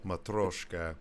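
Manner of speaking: one word in a Russian accent. Shown as a demonstration. Co-host showing off his accent, Russian accent. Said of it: "My, my Russian accent".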